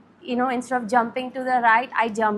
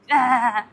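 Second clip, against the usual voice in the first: short, wordless "ah" for the nagging voice; imitated inner nagging; 5 dB louder than usual. Voicing what is always at the back of the head, imitated nagging noise.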